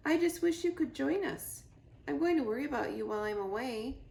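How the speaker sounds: high, hurried, worried little voice; gosling tells his mother he'll worry, fast and high. Acted. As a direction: fret about leaving Mama.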